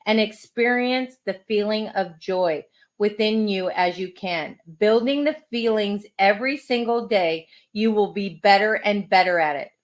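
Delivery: measured, deliberate quote reading; unhurried reading with space between phrases; inspirational reading. Acted. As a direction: read it out as a gentle affirmation lesson.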